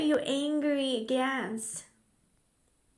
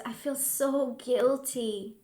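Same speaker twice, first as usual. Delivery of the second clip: modeled guilt; slower than usual. Shown as a demonstration. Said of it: "How about guilt?".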